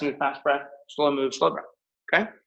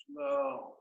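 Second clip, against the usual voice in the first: soft, high, stretched-out word; hushed slow cue; 9 semitones higher, 11 dB quieter than usual. Shown as a demonstration. Instructor cueing a slow breath, hushed and drawn out. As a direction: ease it out gently.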